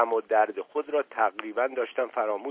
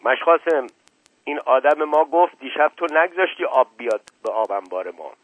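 surprised and protesting; 3 semitones higher, 6 dB louder than usual. Acted. Colonel confronting Mash Qasem, surprised and protesting. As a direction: confront him in disbelief. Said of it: "با لحن تعجب و تعرض گفت".

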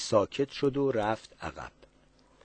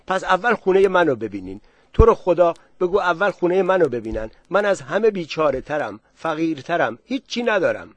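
louder, higher rush to be chosen first; eager pleading; 5 semitones higher, 6 dB louder than usual. Acted. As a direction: push forward, desperate to be picked. Villager eagerly begging first turn.

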